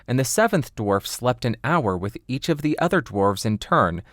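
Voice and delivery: usual speaking voice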